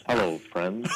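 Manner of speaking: hushed golf announcer greeting; a light take on a Masters broadcaster; Jim Nantz. Acted. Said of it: "like Jim Nantz at the Masters".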